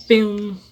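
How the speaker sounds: "Pen" alone, loud and held; stressed syllable PEN. Shown as a demonstration. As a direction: call out "Pen" as the strong syllable. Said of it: "sílaba mais forte?". ("Pen" isolado, forte e alongado)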